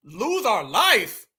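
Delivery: slow, disbelieving echo; incredulous. Real, not acted. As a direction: drag out the words in disbelief. Echoing the clip in disbelief.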